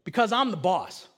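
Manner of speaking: firm parental last word, at full voice; asserting authority. Retold or imitated. Father finally answering his son's whys, firm. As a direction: lay down the law, retold. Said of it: "then finally I just go".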